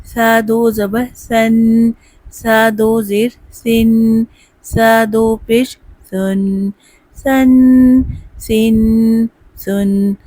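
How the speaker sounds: slow, spelled-out drill for students to repeat; slow drill recitation. Shown as a demonstration. Teacher leading a spelling drill, slow. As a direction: chant each syllable slowly. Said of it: "نرمی سے ادا کریں گے".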